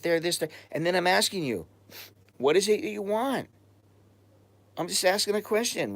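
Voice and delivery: exasperated, demanding an answer; calling out a chatter who won't answer; heated confrontation. Real, not acted. Confronting Andrew over his answers.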